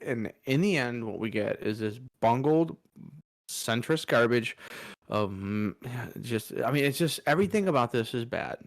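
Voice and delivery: ordinary talk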